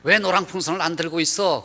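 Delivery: mildly indignant retold rebuke; retold scolding. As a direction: imitate an old man chewing out a guide. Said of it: "야단을 치더라는 거예요".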